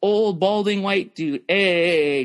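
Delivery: lightly voiced balding comic; Larry David impression. Comic sketching an old balding white dude, lightly mocking drawl. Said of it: "That's just like".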